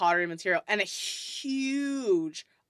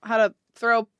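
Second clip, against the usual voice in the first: a bit higher and louder, inviting; friendly dwarf; 5 semitones higher, 5 dB louder, faster than usual. Acted. Dwarf asks the adventurer about pottery, friendly and lifted. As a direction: offer the lesson eagerly. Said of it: "He's like".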